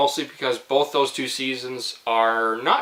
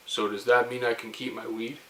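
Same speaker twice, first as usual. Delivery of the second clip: retold whisper; 3 semitones lower, 8 dB quieter than usual. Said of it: "whispered to Jacob".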